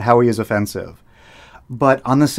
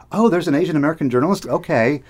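mock surprise; 5 semitones higher, faster than usual. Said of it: "my reaction was".

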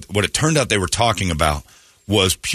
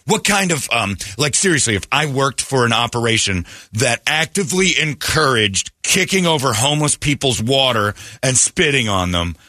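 slightly mocking, higher-pitched defiant protest; mimicked indignant wife; 3 semitones higher than usual. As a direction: imitate her refusing to be hushed. Mimics wife refusing to quiet down.

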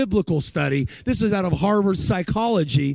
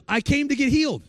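put-on boy's halting speech; 8 semitones higher than usual. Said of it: "he talked like this a little bit".

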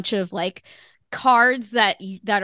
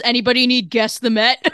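pushy ticket tout; 3 semitones higher, 5 dB louder than usual. Retold or imitated. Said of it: "And Linda's out here with, like, sunglasses".

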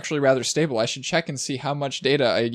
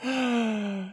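high, soft gasp of amazement; shocked gasp; 9 semitones higher, 5 dB quieter than usual. Real, not acted. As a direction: gasp at how rich they are. Reacts to parents' wealth.

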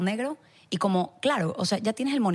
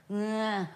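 mock exhausted sigh; 6 dB quieter than usual. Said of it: "sales así como".

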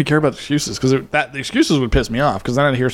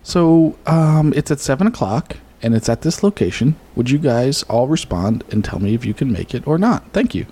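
pipe major voice. Acted. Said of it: "let me get in my pipe major voice".

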